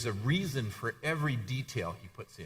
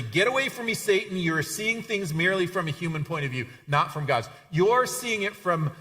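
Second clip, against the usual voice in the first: higher-pitched, insistent scolding; firm, acted reprimand with raised pitch; stern rebuke; 6 semitones higher than usual. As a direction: sternly set a follower straight. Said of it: "he said to Peter very sternly".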